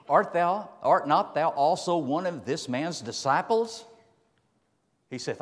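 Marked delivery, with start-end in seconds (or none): 0.1-3.8 damsel's accusing question. Acted. Preacher voices the damsel.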